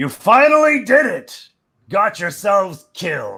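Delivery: booming god voice, very loud, very high, swooping. Voicing the god the Fury as he beckons the listeners: booming voice. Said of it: "his voice booms out".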